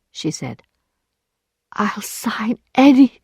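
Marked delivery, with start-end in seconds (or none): 1.7-3.2 whispered plea, cut off; frightened whisper. Acted. Emma trembling before Lheureux, whispering a plea. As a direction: whisper it in fear.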